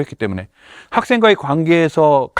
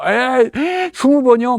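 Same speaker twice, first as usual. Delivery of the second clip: whining students; 10 semitones higher, much slower than usual. Retold or imitated. Students protesting the punishment.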